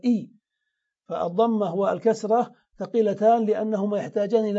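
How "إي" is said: إي as a bare "ee" sound; kasra vowel demonstration. Shown as a demonstration. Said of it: "والكسرة تفتح الشفتين ثم تنزلهما إلى أسفل".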